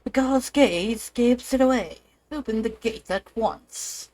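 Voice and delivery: a light British accent on a stern order. Shown as a demonstration. Streamer redoes the guard's order in a British accent. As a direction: redo the order with a touch of British. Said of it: "I should do this in a British accent".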